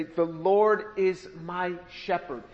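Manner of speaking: meditative. Shown as a demonstration. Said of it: "you take this word and you say".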